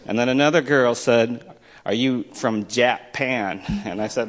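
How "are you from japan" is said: retold question. Voices a girl's slow question.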